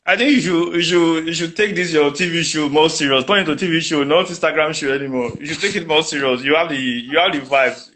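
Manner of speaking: ordinary talk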